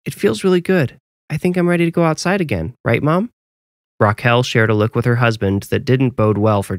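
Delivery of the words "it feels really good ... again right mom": put-on higher-pitched child voice, hopeful; eager little boy. A narrator's reading. Boy asking Mom to go outside again, eager. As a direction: play a keen young son. Narrator voices young Jasper.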